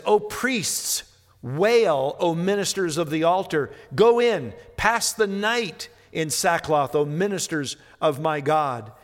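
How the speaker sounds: solemn prophetic reading with a rising call; preacher reading a prophetic summons; scripture reading. Acted. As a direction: proclaim the verse like the prophet. Reading Joel aloud in sermon.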